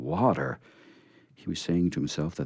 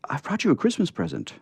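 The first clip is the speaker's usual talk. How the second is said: put-on little girl voice; 10 semitones higher, faster than usual. Betsy speaking, high child voice.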